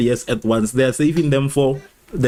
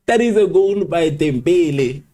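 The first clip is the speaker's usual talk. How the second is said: higher, slower, savoring goal call; excited announcement; 5 semitones higher, slower than usual. Real, not acted. Streamer announcing the goal to viewers, excited and drawn out. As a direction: announce the scorer with pride.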